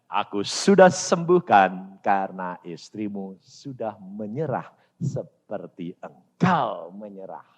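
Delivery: low, slow divine reply; solemn, measured acted God. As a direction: answer slowly and low, as God. Voices God answering his prayer.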